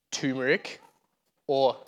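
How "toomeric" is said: turmeric with no first R, as TOO-muh-rick; mispronounced turmeric. Shown as a demonstration. Showing friends what it is not, turmeric said as "toomeric". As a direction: say turmeric as "toomeric", lower and softer. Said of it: "That is not turmeric".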